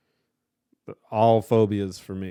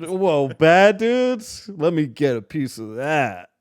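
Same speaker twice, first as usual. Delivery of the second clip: high, hammed-up kid excitement; mock excited; 4 semitones higher, much slower than usual. Host mocks a kid thrilled by the NES box art, excited.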